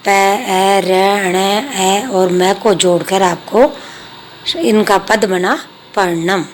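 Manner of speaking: letters said one by one, then joined into पर्णम; spelling out letters. Shown as a demonstration. Teacher joining letters into पर्णम for pupils, slow and separate. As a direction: sound out each letter, then the word. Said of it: "जैसे example पहला दिया हुआ है".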